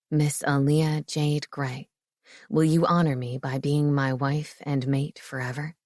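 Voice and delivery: a proud, grinning groom-to-be; Marcus, playful fiancé. A narrator's reading. Marcus proposes.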